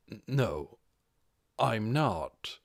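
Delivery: halting, whispered no; mumbled denial. Acted. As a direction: barely get the words out. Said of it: "managed to mumble".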